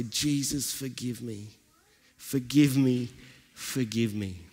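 tearful plea. Retold or imitated. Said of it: "began to cry and say".

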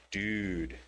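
dude said low and falling, calm; low flat dude. Shown as a demonstration. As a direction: drop dude down low and let it fall. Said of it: "depends on how you do the inflection".

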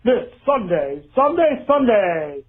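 retail ad announcer. Retold or imitated. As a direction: announce the sale like an old radio spot. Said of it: "went something a little like this".

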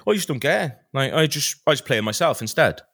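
lightly mimicked West Wales cameraman; a touch of West Wales in the voice; West Wales accent. Cameraman dismissing gaming videos, light West Wales accent. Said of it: "very West Wales accent".

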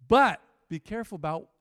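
"careful" called out loud; loud warning. Real, not acted. Preacher warning the church about late-night phones, called out loud. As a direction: sound the alarm with a loud warning.

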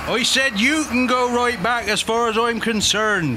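slow, emphatic repeat. Real, not acted. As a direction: repeat it slowly for the deaf.

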